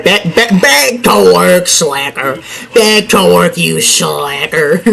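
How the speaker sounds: slow, drawn-out "back to work, you slacker"; mock boss scolding. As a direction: play a grumpy boss scolding a lazy worker. Scolding game character.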